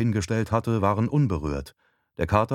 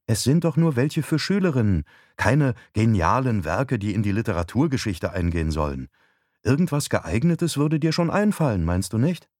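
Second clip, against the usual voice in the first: lightly voiced wife, pitched up; a hint of a persuading wife; wife, coaxing; 4 semitones higher than usual. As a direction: gently talk the husband round. Narrator voices wife coaxing husband.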